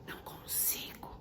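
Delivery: mock whisper. Preacher imitates a hopeless person, whispering. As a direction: breathe it out. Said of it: "Vou falar até baixinho".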